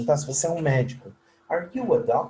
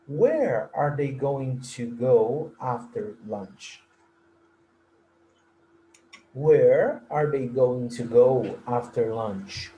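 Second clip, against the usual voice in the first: slow model question; slower than usual. Shown as a demonstration. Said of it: "Nessa frase".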